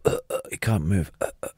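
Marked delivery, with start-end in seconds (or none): 0.1-0.4 low, soft fake cough; feigned cough. Imitating the assassin pretending to be ill, soft fake cough. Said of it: "he's pretending he's got a cough". 1.2-1.5 low, soft fake cough; feigned cough. Imitating the assassin pretending to be ill, soft fake cough. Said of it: "he's pretending he's got a cough".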